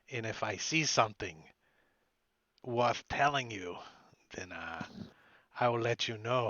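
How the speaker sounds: loosely attempted Scottish accent; rough Scottish accent. Informant bargaining with Pinch over gold, rough Scottish accent. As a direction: try a shaky-at-best Scottish brogue, measured and deliberate. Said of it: "My Scottish accent isn't that great".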